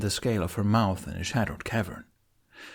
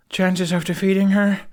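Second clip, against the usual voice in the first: shouted question; 10 semitones higher, 6 dB louder than usual. Acted.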